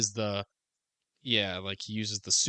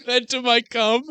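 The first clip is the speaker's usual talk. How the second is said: incredulous; 13 semitones higher, 8 dB louder than usual. Real, not acted. Incredulous repeat, laughing.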